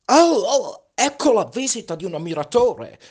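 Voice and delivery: high, loud delighted call; calling from afar. Acted. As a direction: hail a visitor from far off. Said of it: "gridò da lontano il vanitoso".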